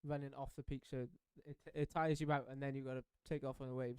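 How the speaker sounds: breathless after a hard paddle; panting between words; out of breath. Real, not acted. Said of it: "I'm still out of breath".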